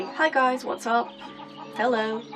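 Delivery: normal talking voice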